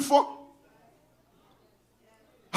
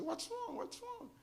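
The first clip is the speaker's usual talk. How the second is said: worried question; 10 semitones higher, 21 dB quieter, slower than usual. Retold or imitated. Asks crying boss what's wrong.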